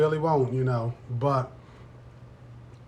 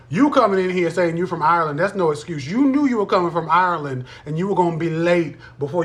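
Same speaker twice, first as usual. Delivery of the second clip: loud, sassy teacher scolding a late student; hammed-up classroom scolding, louder; mock strict teacher; 3 semitones higher, 6 dB louder than usual. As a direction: play the no-nonsense teacher telling off a latecomer.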